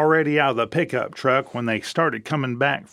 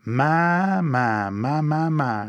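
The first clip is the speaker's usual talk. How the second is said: admiring my my my; much slower than usual. Retold or imitated. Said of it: "You look up at her and you say".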